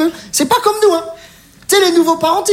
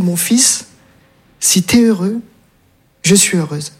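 tender mother quote; 6 semitones lower, slower than usual. Retold or imitated. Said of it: "une phrase qui est magnifique".

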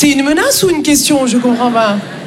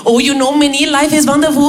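blissful Indian colleague. Retold or imitated. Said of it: "il allait trop bien".

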